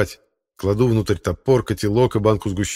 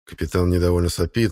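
usual speaking voice

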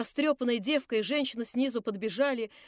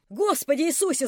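wailing; 4 semitones higher, 4 dB louder than usual. Acted. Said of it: "завопила Фурия".

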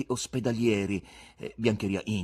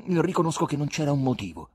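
higher, louder troubled admission; 6 semitones higher, 6 dB louder than usual. A narrator's reading. Ivan answering the stern guest, troubled. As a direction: admit it, upset and on the defensive. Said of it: "rispose Ivan turbato".

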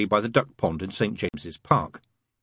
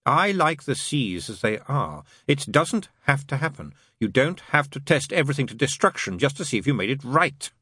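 higher demon voice, emphatic protest; protesting demon character; 6 semitones higher than usual. Acted. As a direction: plead the case as the demon.

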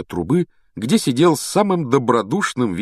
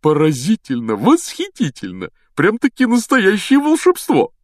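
raised, rapturous voice; exclaiming in wonder; 10 semitones higher, 4 dB louder than usual. Acted. Professor dangling in flight up the pipe, exclaiming rapturously. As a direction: marvel out loud, climbing high at the end. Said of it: "Локонс восклицал".

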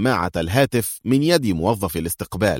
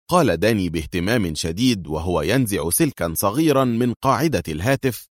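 ordinary delivery

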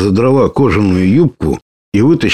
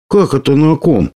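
higher, offended retort; the bird is indignant at Sled's remark; 7 semitones higher than usual. A narrator's reading. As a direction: bristle at the question. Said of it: "возмутилась птица".

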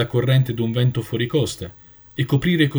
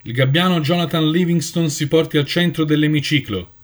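lightly voiced elder, formal and measured; ceremonial tone; 4 semitones higher than usual. The elder summons Jonathan before the assembly, ceremonial. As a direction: summon him like a court herald. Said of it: "Il suo tono di voce era quello delle grandi cerimonie".

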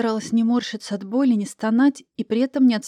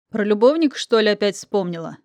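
mocking. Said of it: "насмешливо фыркнул".

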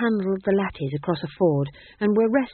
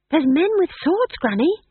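excited shout; 10 semitones higher, 4 dB louder than usual. A narrator's reading. Excited child voice.

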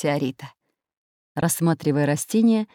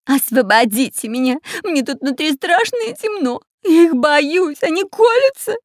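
much higher, louder frightened wail; scared crying out; 10 semitones higher, 4 dB louder than usual. A narrator's reading. Spy stuck inside the plant, frightened high wail. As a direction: whimper and shout like a scared child. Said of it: "кричал шпион Дырка".

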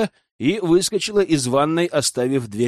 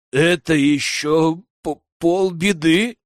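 trembling voice; 2 semitones higher, slower than usual. Acted. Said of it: "дрожащим голосом произнесла она".

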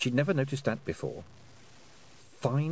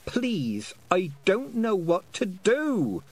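slow, higher pleading wail; a desperate girl begging; 9 semitones higher, 4 dB louder, much slower than usual. A narrator's reading. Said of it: "wailed Tiffany".

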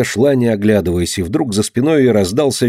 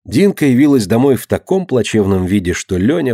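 ordinary delivery

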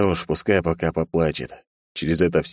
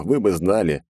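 normal talking voice

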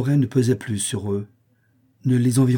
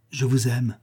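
understated disgust on the quoted words; disdainful quoting. A narrator's reading. Young woman citing her suitor's tiresome declaration, with disgust. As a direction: quote his declaration back with restrained distaste. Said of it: "Un dégoût, une haine presque".

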